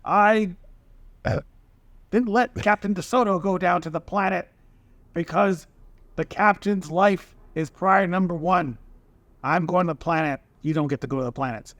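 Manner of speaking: a hint of a boozy old sailor; elderly drunk voice. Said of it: "your Riker sound like an elderly drunk".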